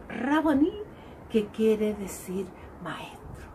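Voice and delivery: Gospel reading. Acted. Priest to the faithful, proclaiming the Gospel. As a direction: read the Gospel to the congregation.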